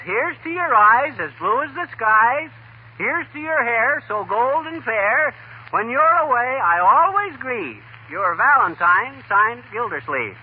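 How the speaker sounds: slow, sing-song recital of a corny love verse; recited valentine poem. Retold or imitated. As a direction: read it out slowly like a sweet greeting card poem.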